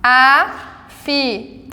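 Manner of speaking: Afiado slow, syllable by syllable; syllables split. Shown as a demonstration. Teacher repeats word for students, slowly separated. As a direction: pull Afiado apart into syllables. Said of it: "Sílabas diferentes".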